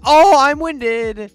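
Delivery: high, loud, slow mock of a gasping enemy; imitating a breathless foe, drawn out. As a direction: ham up a winded enemy for a laugh. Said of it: "He could be like".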